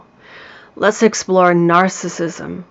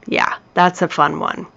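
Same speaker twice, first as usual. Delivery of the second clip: dry, understated sarcasm, a bit softer; sarcastic; 3 semitones lower, 5 dB quieter than usual. Real, not acted. Speaker wryly commenting on the last discard sign, sarcastic. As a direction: drop it in as a quiet sarcastic aside. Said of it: "I'm being sarcastic there".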